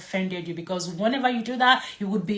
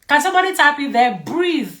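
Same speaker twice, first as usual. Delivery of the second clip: higher, louder push on breathe; emphatic breathe; 4 semitones higher, 6 dB louder than usual. Shown as a demonstration. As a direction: drill the word Breathe into them. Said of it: "B is for breathe".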